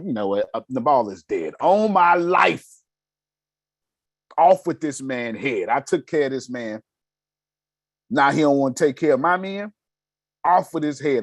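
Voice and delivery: rising mock fury, off with his head; a hint of a furious king; angry King David. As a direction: play David fuming for revenge. David voiced in Bible story.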